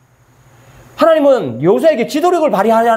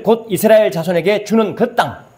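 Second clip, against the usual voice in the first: reads the verse slowly, word by word; slow scripture reading. Shown as a demonstration. Preacher reading the verse slowly to the congregation. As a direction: let each word of scripture land. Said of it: "그 다음 보세요".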